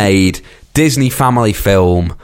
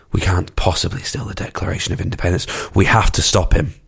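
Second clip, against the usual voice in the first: quick, hushed mock protest; imitated film hero; 5 dB quieter, faster than usual. Podcaster quoting the hero's earlier objection, quick hushed imitation. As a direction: rattle it off softly, in character. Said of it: "he's going".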